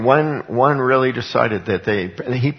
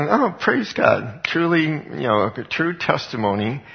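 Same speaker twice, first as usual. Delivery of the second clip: retold delight; 4 semitones higher than usual. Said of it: "I'm sitting there thinking".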